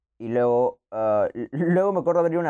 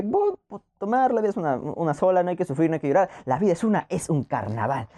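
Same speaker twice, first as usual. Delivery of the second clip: carefree; 4 semitones higher than usual. Retold or imitated. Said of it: "pero dije".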